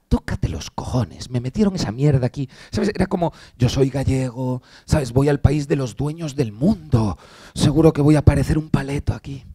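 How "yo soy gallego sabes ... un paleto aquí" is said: mock inferiority complex. Galician recalling his arrival in America, meekly self-doubting. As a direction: play yourself small and unsure, quietly. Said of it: "fui con cierto complejo de inferioridad".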